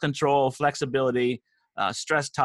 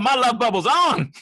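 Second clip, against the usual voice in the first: playful high squeal; 10 semitones higher, 4 dB louder than usual. Acted.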